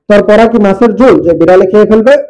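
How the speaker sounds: loud scolding teacher voice; angry teacher. Acted. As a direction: bark at the lazy student. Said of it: "শিক্ষক আবার রাগবত". (রাগী শিক্ষকের জোরালো ধমক)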